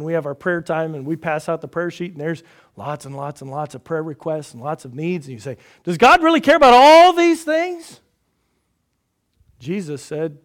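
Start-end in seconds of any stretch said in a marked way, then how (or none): 5.8-8.0 doubting question. Retold or imitated. Voicing a doubting listener.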